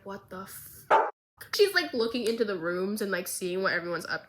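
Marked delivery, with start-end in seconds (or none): 0.0-0.8 shocked. Retold or imitated. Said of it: "is like".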